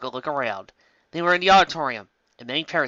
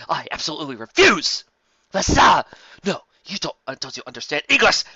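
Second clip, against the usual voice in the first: desperate scream; 4 semitones higher, 7 dB louder than usual. A narrator's reading. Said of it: "Kirk screamed, sounding desperate".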